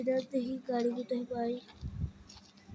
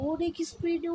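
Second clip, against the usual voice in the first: raised, rushed with speed; excited; 6 semitones higher than usual. Shown as a demonstration. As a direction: push it up as you speed. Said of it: "অনেকক্ষণ দৌড়াচ্ছি আমি".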